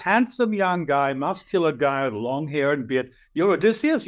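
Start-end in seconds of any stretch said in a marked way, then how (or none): 3.3-4.1 higher, doubting question; can't believe the name; incredulous. Retold or imitated. Author asks the young man, incredulous.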